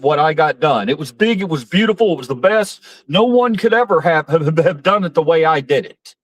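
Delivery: boastful Trump-style rambling, hammed up a little; Trump impression. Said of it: "says things like".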